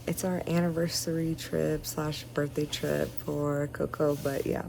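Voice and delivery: talking with retainers in; slightly lisped retainer speech; wearing a retainer. Real, not acted. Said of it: "my retainers are in".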